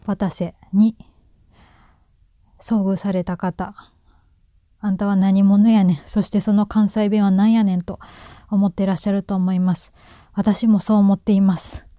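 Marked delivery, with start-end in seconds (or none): 4.8-7.8 mock challenge in a slightly louder Kansai dialect; odd Kansai accent. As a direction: question it in oddly intoned Kansai dialect. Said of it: "普段こんな関西弁で喋ってません".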